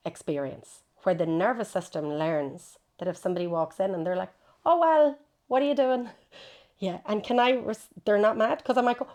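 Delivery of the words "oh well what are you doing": higher, louder accusing partner voice; critical partner. Retold or imitated. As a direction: snap it like a partner catching you idle.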